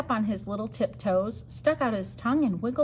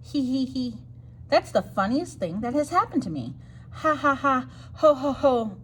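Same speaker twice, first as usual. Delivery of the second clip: giggling; 3 semitones higher than usual. Acted. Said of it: "He began to giggle".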